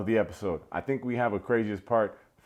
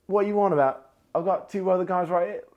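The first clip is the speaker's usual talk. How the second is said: higher, louder put-on girl voice; mock Izzy; 9 semitones higher, 4 dB louder than usual. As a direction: squeak it out as a flustered girl. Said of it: "And she's like".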